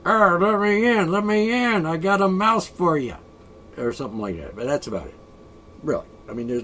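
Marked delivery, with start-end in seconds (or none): 0.1-3.2 higher, louder pleading cat; cat at the door. Retold or imitated. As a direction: beg to be let in like the cat. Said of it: "the cat will come to the door and say".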